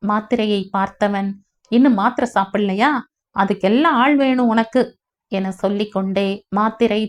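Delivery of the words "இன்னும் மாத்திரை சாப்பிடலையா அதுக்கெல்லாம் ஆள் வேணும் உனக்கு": quick, irritated scolding. Acted. Husband scolds wife for skipping her pills, irritated. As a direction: nag her about the pills. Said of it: "இன்றும் திட்டிக்கொண்டே அவன் நீட்ட".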